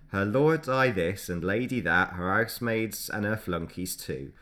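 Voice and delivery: put-on light Cockney accent, poem read aloud. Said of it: "get your best Cockney accent on".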